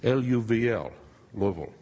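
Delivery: Louisville slurred into two syllables, like "LUV-ul"; "L U V L", then Louisville squashed to "LUV-ul"; local pronunciation. Shown as a demonstration. Telling the audience how locals say Louisville, squashed to "LUV-ul". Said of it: "most locals just pronounce it".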